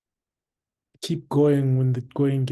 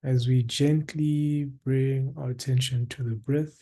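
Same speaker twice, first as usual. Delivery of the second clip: guided meditation. Acted. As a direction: guide listeners into stillness, unhurried, with long pauses.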